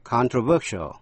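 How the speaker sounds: controversial with the beat on "ver"; stress on third syllable. Shown as a demonstration. Teacher shows where controversial takes its accent, stress on third syllable. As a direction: lean on the third syllable of controversial: con-tro-VER-sial. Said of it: "dấu nhấn rơi vào âm thứ ba".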